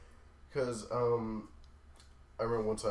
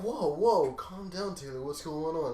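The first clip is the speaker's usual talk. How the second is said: manager calming; 6 semitones higher, 6 dB louder than usual. Retold or imitated. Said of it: "he'd be like".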